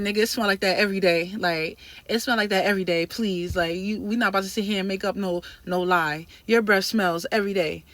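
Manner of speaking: loud heated roast; angry. Retold or imitated. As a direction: shut him down. Roasting trainer's breath.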